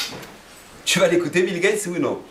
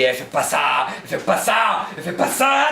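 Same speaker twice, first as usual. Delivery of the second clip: rising nag; slower than usual. Retold or imitated. Torah voiced as nagging warner.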